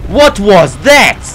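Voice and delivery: loud, slow, stretched-out disbelief; indignant outburst. Real, not acted. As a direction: demand it loudly, stretching each word. Gamer outraged at being hit.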